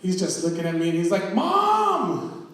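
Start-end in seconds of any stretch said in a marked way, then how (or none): 1.3-2.5 put-on high-pitched, drawn-out child's holler; mock-alarmed kid tattling to mother; kid calling mom. Nephew reporting masked man outside to his mom, high calling.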